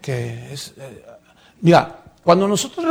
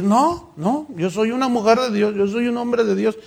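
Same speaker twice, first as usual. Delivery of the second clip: higher, mock-sincere pleading; mock pious protest; 5 semitones higher than usual. Preacher mimicking hypocrites claiming holiness, mock pious. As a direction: play the fake saint, lightly.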